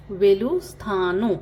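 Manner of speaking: वेलुस्थानु said slowly and clearly, each syllable apart; slow it down for the class; slow teaching repeat. Shown as a demonstration. Teacher repeats Telugu goodbye slowly for learners. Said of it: "good bye को क्या कहते हैं".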